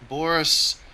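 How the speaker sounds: put-on terrible Russian accent. Cheering on teammate Boris, in a terrible Russian accent. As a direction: ham up a bad Russian accent, praising the teamwork. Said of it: "That's my terrible Russian accent".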